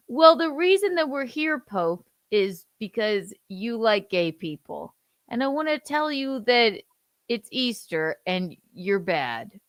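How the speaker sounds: high, loud sneering JD voice; mock scolding JD. Son dubs JD scolding the Pope about Easter. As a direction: scold him in a silly put-on voice.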